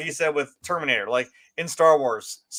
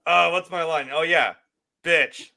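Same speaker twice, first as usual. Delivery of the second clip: mock forgetful actor; slower than usual. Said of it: "than just being like".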